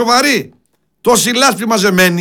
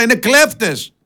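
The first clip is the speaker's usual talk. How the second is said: ordinary talk, nothing marked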